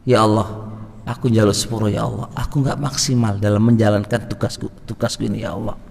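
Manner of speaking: soft, hushed plea for forgiveness; a gentle tearful whisper to God; tearful prayer. Shown as a demonstration. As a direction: pray quietly as if near tears. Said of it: "sambil nangis".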